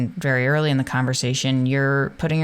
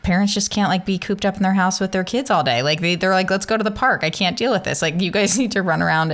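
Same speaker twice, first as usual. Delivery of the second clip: mock exasperated parent; 5 semitones higher, faster than usual. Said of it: "Holly and I were joking".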